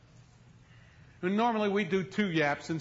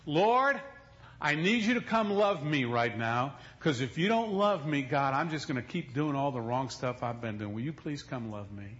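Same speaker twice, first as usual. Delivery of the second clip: humble prayer. Retold or imitated. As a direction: plead gently for help. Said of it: "prayed the right prayer".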